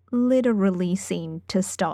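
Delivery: ordinary delivery, nothing marked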